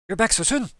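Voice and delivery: high, bright-eyed surprised greeting; excited. Acted. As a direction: greet him back with delight. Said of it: "with a bit of excitement and goes".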